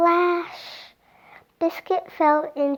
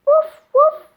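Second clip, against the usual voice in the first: high, loud playful puppy woof; puppy bark; 13 semitones higher, 9 dB louder than usual. Acted. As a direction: bark it like an excited little puppy. Dog barks in story.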